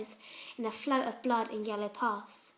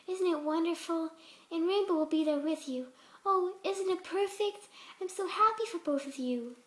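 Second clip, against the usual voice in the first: a hint of a gentle, higher pony voice, sweetly unsettling; lightly voiced sweet Fluttershy; 5 semitones higher than usual. Fluttershy voice again.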